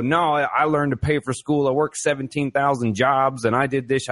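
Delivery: lightly put-on country accent, boasting; a hint of a country accent, proud of the grind. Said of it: "I don't know why he's got a country accent".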